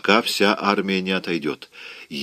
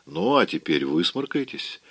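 smiling order; 3 semitones lower than usual. Acted. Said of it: "приказал он, и глаза его улыбались".

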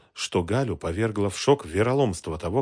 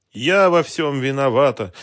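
loud, high, stubborn insistence on "я"; stubborn repetition; 7 semitones higher, 10 dB louder than usual. A narrator's reading. Woman stubbornly repeating her guilt to him, loud insistence. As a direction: dig in and repeat it. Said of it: "упрямо повторила Галина".

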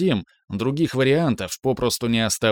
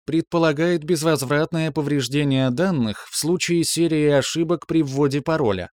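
higher, even machine readout; parry like a calm machine; metallic computer voice; 4 semitones higher than usual. Acted. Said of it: "продолжала машина".

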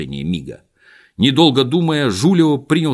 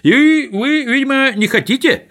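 high, louder mocking tone; high mocking taunt; 6 dB louder than usual. A narrator's reading. Swindler taunts the miser in a high voice.

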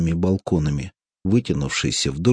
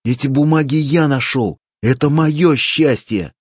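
greedy shout; 7 semitones higher, 5 dB louder than usual. A narrator's reading. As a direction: claim the treasure loudly. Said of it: "кричал Клапос".

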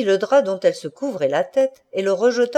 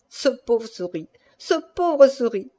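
mildly gleeful, higher mock pity; 4 semitones higher than usual. A narrator's reading. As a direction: relish the joke on the poor man. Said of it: "Il balbutiait tout secoué par sa joie". (jubilation moqueuse)

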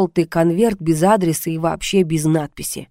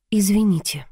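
forced calm; 3 semitones higher than usual. A narrator's reading. Heroine answering her tormentor on the phone, carefully calm. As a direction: keep it as calm as you can, a little subdued. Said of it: "как можно спокойнее ответила я".

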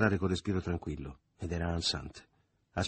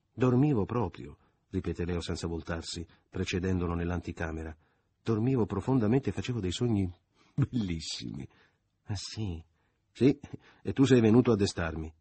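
smug Leo; 4 dB louder than usual. Acted. Leo insisting he was asleep.

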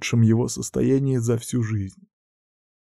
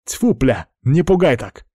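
louder, rising irritated snap; annoyed outburst; 3 semitones higher, 3 dB louder than usual. Acted. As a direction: scold him for the scare. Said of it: "разозлился командир отряда".

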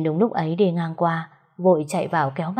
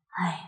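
sigh; 9 dB quieter than usual. Acted. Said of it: "Liên thở dài".

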